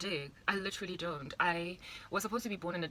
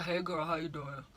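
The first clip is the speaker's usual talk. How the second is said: put-on lightly lowered, cool boy voice; 3 dB quieter than usual. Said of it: "And John is like".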